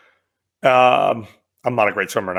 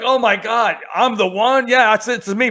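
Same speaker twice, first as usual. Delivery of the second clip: higher, laughing mock shock; laughing disbelief; 8 semitones higher than usual. Trainee reacting to being singled out, laughing disbelief. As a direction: squeal out the disbelief through laughter.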